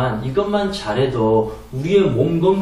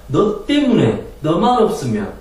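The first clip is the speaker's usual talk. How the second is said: higher, louder accusing snap; angry partner blaming the other; angry blame; 5 semitones higher, 4 dB louder than usual. Shown as a demonstration. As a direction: throw the blame at them.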